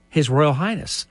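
a hammed-up gasp, then His Royal Highness said in an altered voice; mock gasp. Talking about his own monogram, a playful mock gasp. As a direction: fake shock at the initials on a shirt cuff.

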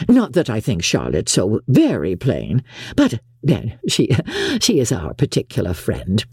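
a hint of a self-satisfied mother, pitch swinging; lightly voiced boastful mother. Mother belittling the neighbours' girls to Mister Bingley, lightly boastful. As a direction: lightly play a mother gossiping with airs.

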